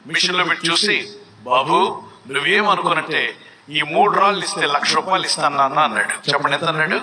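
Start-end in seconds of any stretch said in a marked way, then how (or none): 1.4-5.8 lightly voiced shop owner, pitched lower; low-pitched, measured offer from a dealer; shop owner's offer. Shop owner offers a lakh for three stones, lightly acted low voice.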